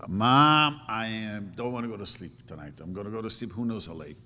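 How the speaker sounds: put-on a child pleading to stay up, loud at first then quick; whiny teenager. Parent voicing a teen refusing bedtime, loud then fast whining. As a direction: mimic a kid pushing back on bedtime.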